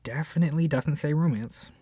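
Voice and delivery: ordinary talk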